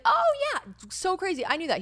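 high, bright mock enthusiasm; mock bubbly reply. What he should have said, in mock gushing. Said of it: "instead of being like".

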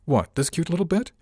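high mocking sneer; sneering man voice. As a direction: scoff at her as harmless. Passenger mocks the bodyguard.

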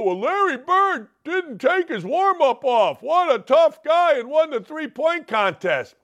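mocking basketball fan. Host mocks basketball fans praising Larry Bird, high mocking voice.

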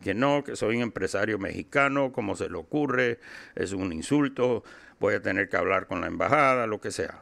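a light put-on Mexican accent in Spanish, mock indignant. Insisting to the taxi driver he's a Mexican businessman, light Mexican accent. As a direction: play the offended Mexican businessman with a hint of Mexican accent. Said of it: "I'm putting on my Mexican accent".

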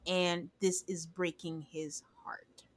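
hushed, slow whisper. Real, not acted. Telling her cohost how the dog's owner is heartbroken, whispered. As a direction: breathe it out slowly, saddened.

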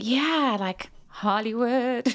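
picture the bright lights and stretch it out; starry-eyed excitement. Retold or imitated. Londoner dreaming of Hollywood, starry-eyed excitement.

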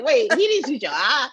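lightly acted, high Nigerian-accented question; mock-baffled Nollywood voice with Nigerian accent. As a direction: play puzzled in a Nigerian accent. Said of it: "when you bring in the Nigerian accent".

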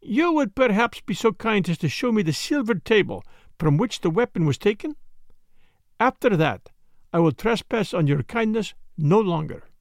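a hint of a precise, questioning Belgian sleuth; Poirot. Story figure, Belgian detective.

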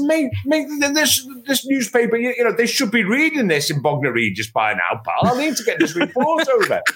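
high, pleading with a laugh; urgent, exasperated appeal; exasperated plea. Retold or imitated. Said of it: "I said".

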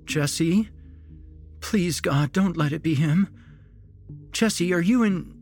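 high, anxious pleading rising to a cry; distraught mother. A narrator's reading. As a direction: panic mounting as you find your son. Distraught mother finds her son.

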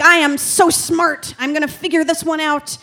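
mock triumphant boast; smug self-praise. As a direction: crow it like a genius. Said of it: "And I was like".

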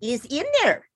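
a hint of a put-on Italian accent. The speaker defends his name to the panel, light Italian accent. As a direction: explain your Italian name with a light Italian lilt. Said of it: "is it actually your real accent or are you mocking us".

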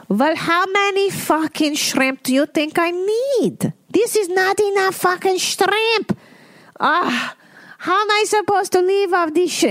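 very high, shrill-pitched mock rage; irate mother. Mother rages at her son over too few shrimp, screeching high. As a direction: screech it like a furious old woman. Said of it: "became irate".

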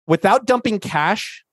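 Australian attempt drifting into Indian; a hint of Northern Indian accent; slightly Indian accent. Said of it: "slightly Indian".

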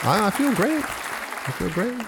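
mock earnest, holding back laughter; fake serious calm. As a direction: say it straight-faced. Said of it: "Trying to switch the intro up".

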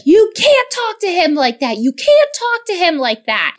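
mock the husband telling her off; wife mimicking her husband's reproach; mimicking husband scolding. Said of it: "And Matt was like".

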